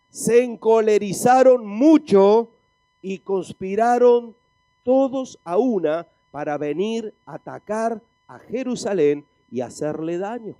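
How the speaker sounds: deliberate, emphatic Bible reading; emphatic scripture preaching. Acted. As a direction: read it out with weight on each phrase.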